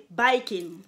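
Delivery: "biking" said like "bikers"; "biking" with the vowel of "bikers"; Japanese pronunciation. Shown as a demonstration. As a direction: say "biking" as "baï-kine". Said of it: "ça se prononce comme, euh, les bikers".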